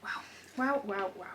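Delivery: very soft, stunned wows; speechless awe. Real, not acted. Vlogger speechless at her parcel, hushed awe. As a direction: murmur it, lost for words. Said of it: "I'm speechless".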